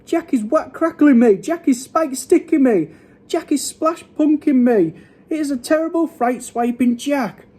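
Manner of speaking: high, loud, frantic ranting; bellowing. A narrator's reading. Giant attacked by Jack in a nightmare, bellowing. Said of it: "bellowed the flesh lump eater".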